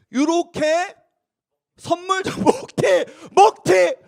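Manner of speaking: loud, high exclamation with laughter; laughing shout of mock outrage; amused outcry. Real, not acted. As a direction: blurt it out loudly, half laughing. Exclaiming at gift grabbed and run.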